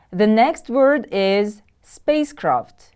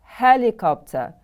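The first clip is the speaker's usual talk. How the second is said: Helicopter with HEL stressed, pitch falling after; stress on first syllable. Shown as a demonstration. Teacher modelling a new word for pupils, first-syllable stress. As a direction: hit the first syllable of "Helicopter", let the rest fall. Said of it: "The stress is on the first syllable".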